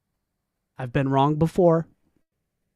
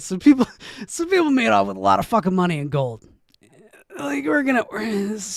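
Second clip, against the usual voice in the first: excited; 4 semitones higher, faster than usual. Real, not acted. Excited reaction.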